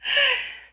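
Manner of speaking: high laugh trailing the punchline; real laugh. Real, not acted. Host still amused by the woman's voice, high laugh. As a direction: keep cracking up, high-pitched.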